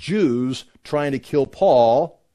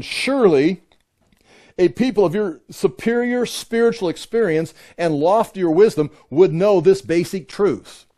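sarcastic; 4 semitones higher than usual. Retold or imitated. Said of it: "being sarcastic".

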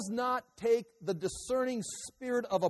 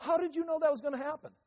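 1 son asking; 7 semitones higher, faster than usual. Retold or imitated. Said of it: "this is gonna be the result".

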